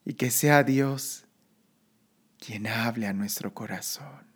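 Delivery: soft, slow guided meditation voice; sleep story narrator. Acted. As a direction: ease them into calm, slowly. Leads a breathing meditation.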